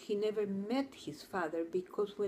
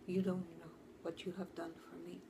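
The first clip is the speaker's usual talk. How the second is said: fast, breathless whisper of thanks; grateful whisper; 6 dB quieter, faster than usual. Retold or imitated. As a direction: whisper it as if overwhelmed. Grateful client speaks to therapist.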